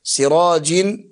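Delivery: سراج pronounced "sirajin"; kasra tanween. Shown as a demonstration. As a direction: finish سراج on a short i plus clear n. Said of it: "نون ساكنة وقبلها كسر".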